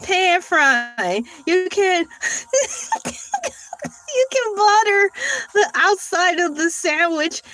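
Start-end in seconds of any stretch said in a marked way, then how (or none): 1.5-7.4 high, drawn out through laughter; slow, laughing read. Real, not acted. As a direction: read it while cracking up. Laughing while reading AI answer.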